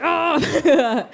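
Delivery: high, laughing mock confusion; flustered laughing. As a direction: giggle through the awkward question. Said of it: "And I was like".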